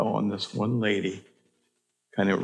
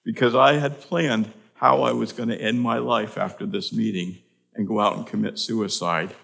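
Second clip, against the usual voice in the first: emotional retelling; 3 semitones higher, 4 dB louder than usual. Retold or imitated. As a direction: voice the stunned woman's outburst. Suicidal lady quoted.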